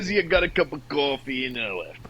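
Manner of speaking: put-on joking New York accent. Friend mocking a Jersey visit, mock New York accent. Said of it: "that's like a New York accent".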